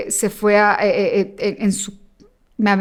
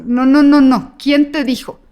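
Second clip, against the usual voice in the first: put-on child's disbelief; 4 semitones higher, 6 dB louder than usual. Son refusing father's death.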